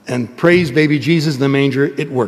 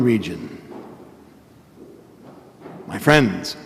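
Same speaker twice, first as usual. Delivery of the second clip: solemn proclaimed gospel reading. Real, not acted. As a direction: proclaim it from the pulpit. Priest proclaims the gospel at Mass.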